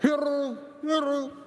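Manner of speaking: high, loud call of Hiru; calling kangaroos. Retold or imitated. Standing on a hill calling kangaroos at sunset, high loud call.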